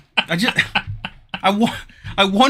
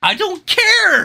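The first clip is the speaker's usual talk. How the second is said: slow mock indifference; 10 semitones higher, much slower than usual.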